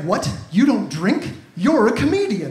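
loud, incredulous outburst; freaked-out fan. Retold or imitated. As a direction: act out a fan's loud disbelief. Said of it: "and he freaked out".

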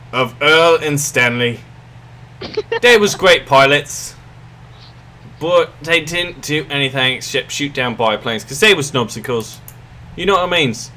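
put-on hammy British wartime-speech accent; terrible British accent. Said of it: "sorry for my terrible accent".

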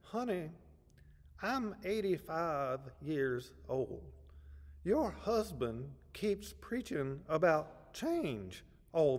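slow, drawn-out Deep South drawl, rising high at the protest; deep Georgia accent. Retold or imitated. Elderly churchgoer objecting to the pastor's wife, deep Georgia accent. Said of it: "said in that deep Georgia accent".

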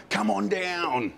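slow drawn-out host imitation; mild game show announcer impression; game show announcer call. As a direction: stretch it like a TV announcer. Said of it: "can't wait to hear the speaker".

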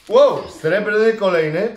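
loud, slow gasp of surprise; surprised wow. Real, not acted. Parent surprised by a silver card, loud wow.

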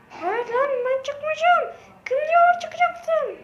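slow, stretched cartoon voice with a laugh; high squeaky character protesting. Character refusing to leave the game, squeaky laughing protest.

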